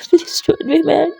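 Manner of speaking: fiancée caught out, crying and apologising; crying plea. Acted. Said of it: "काजल रोने लगती है".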